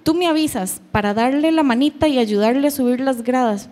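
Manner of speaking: hint of a tiny child talking like an old lady; little-old-lady child. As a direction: lightly mimic a small daughter's grown-up chatter. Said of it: "habla como una viejilla".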